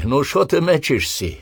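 high, loud, jeering sergeant yell; mocking bellow. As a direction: hector the fumbling recruits. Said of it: "забаскали".

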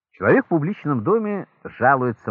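ordinary delivery

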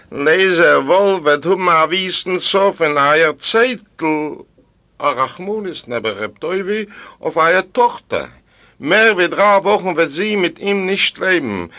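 high, forceful vengeful ghost; angry dead wife pronouncing doom; threatening ghost woman. A narrator's reading. Ghost threatens Tevye's daughter.

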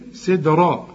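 سدرا with bounced d and dark "raw"; heavy ra. Shown as a demonstration. Teacher shows the rule, سدرا ending in heavy ra. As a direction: thicken only the ending of سدرا. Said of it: "الراء هي المفخمة".

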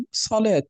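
"صلاة" ending in -tun; tanween ending. Shown as a demonstration. Teacher showing students tanween, damma tanween ending. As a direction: sound "صلاة" with a final -un. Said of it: "هذا هو ما يسمى بالتنوين".

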